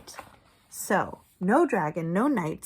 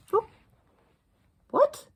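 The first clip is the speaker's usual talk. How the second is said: high sudden What; startled high cry; shocked exclamation; surprised; 6 dB louder than usual. Acted. Surprise at the page.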